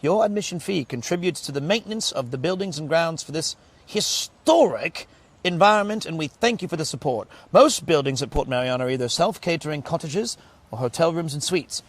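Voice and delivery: steady booklet read-out; reading aloud. Real, not acted. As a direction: read the information out for the viewers.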